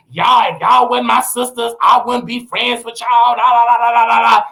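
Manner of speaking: lightly voiced Toni Braxton scolding her sisters; imitating Toni Braxton. Toni Braxton to her sisters, a mild mock scolding. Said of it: "she was saying that".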